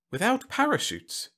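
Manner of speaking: very high-pitched amazed question; marvelling. A narrator's reading. Whitlow amazed at the plan, marvelling. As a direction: ask it in wide wonder. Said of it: "Whitlow marvelled".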